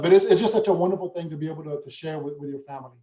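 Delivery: a real catch of feeling, dropping to almost nothing; emotional. Real, not acted. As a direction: voice fading as he gets choked up. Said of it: "sometimes I, I get emotional".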